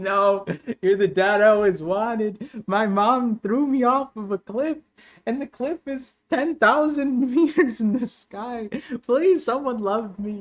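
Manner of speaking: tearful, sobbing, high blubbering begging. Retelling a scene with Loki and Rox, imitating Loki crying. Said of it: "Loki starts crying".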